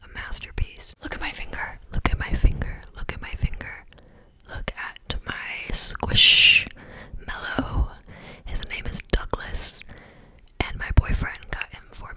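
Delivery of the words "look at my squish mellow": fast aggressive asmr. Acted. Drawn-out whispered word.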